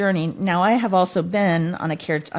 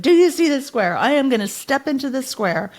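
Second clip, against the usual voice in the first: defiant outcry; 2 semitones higher than usual. Retold or imitated. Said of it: "I pointed and I said".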